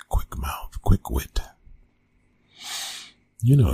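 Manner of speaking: ordinary talk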